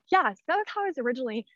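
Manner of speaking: breathless, talking between breaths; winded, catching her breath while speaking. Real, not acted. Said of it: "I am so out of breath".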